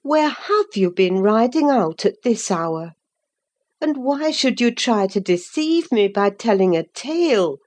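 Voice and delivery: a nurse holding back a scolding; gentle reproach. Acted. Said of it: "too vividly impressed ... to break into a scold".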